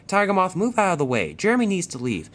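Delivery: a cross engine telling a biplane to move; cross scolding. Acted. Wilbur orders Tiger Moth off the runway, crossly.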